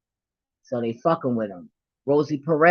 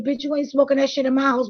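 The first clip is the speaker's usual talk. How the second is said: retold scolding; 11 semitones higher, faster than usual. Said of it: "I was like".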